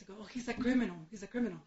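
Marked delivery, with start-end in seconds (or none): 0.2-1.0 offhand answer. Retold or imitated. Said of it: "she was asking too many questions". 1.1-1.6 softer, flatter repeat to end the questions; dry repeat. Retold or imitated. To her granddaughter at Costco, dry and softer. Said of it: "she was asking too many questions".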